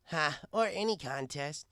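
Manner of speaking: mocking slow jeer; slow sneering jab.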